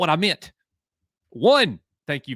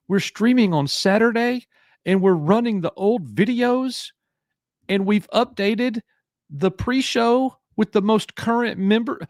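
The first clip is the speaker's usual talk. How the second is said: much higher, hyped-up stream announcement; excited announcer; 11 semitones higher than usual. Real, not acted. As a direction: pitch it up like a hype host.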